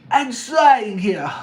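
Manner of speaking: slow, loud put-on puppet voice; Kermit. Speaker attempting an accent on request, strained puppet impression. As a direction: stretch it out in a bad puppet impression. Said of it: "it's gonna be Kermit".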